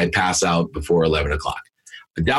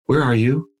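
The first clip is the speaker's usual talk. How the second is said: gentle, higher-pitched retold question; very calm voice; 5 semitones higher than usual. Dad phoning the daughter he just woke, very calm voice. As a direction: ask it calmly, pitched up. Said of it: "with a very calm voice".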